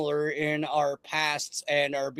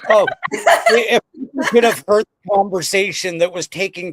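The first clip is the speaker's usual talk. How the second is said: laughing; 4 semitones higher, 7 dB louder than usual. Real, not acted. Laughing while recounting the chat.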